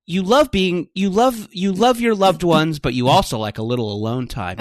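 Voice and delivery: horoscope reading voice. Retold or imitated. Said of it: "when a horoscope says".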